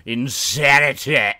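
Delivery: big hammy show host intro; announcer voice. Pretend. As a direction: boom it out like a TV host. Over-the-top show host intro.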